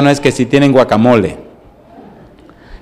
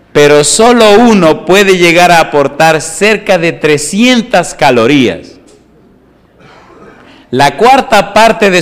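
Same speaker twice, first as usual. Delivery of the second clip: slow, deliberate, slightly raised reading voice; nutrition read; much slower than usual. Acted. Pastor reads avocado facts to the congregation, slow and deliberate. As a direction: read it like a slow health segment.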